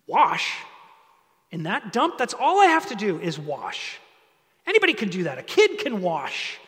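scoff, then build into an offended rant; proud indignation. Acted. Naaman is too proud to wash like a nobody, acted indignation. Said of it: "That's what Naaman's thinking".

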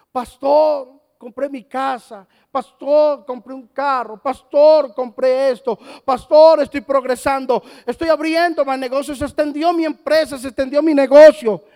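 mock-excited members bragging to the pastor; excited churchgoers. Members boast to the pastor about purchases, loud and excited.

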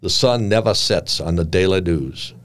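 lightly imitated Southern Piedmont drawl; a hint of a debonair Piedmont editor's drawl; gently put-on Piedmont accent. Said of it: "he drawled".

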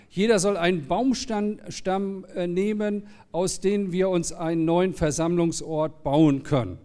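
clear, measured scripture reading; story reading. A narrator's reading. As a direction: read the Bible story aloud to the congregation. Reads the Bible story aloud.

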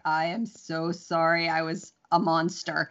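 slow, hammed-up sorry; mock contrite apology. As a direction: drag out a theatrical apology. Apologizing after snapping.

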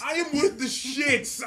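with stretched out and slow; stress on with. Real, not acted. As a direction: lean on the word with, drawing it out. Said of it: "repeated for emphasis".

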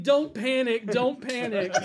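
high mock scream, laughing; retold panicked scream.

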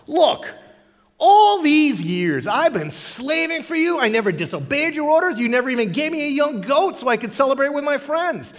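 a touch of the wronged son listing grievances; aggrieved older son. Retold or imitated. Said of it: "the son goes".

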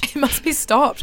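slow whispered echo; drawn-out mock-grave whisper; mock-dramatic whisper. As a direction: echo the dire warning in a whisper. Echoes friend's mock-dramatic whisper.

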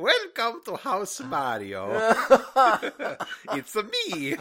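slow, high, through laughter; villain line cracking up; laughing villain voice. Pretend. Villain Mario reveal, laughing.

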